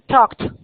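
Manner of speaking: "talked" in one syllable ending "kt"; final -ed as T. Shown as a demonstration. Teacher gives an example to the class, "talked" ending in T. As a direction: close "talked" on a crisp T. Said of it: "se pronuncian como una T".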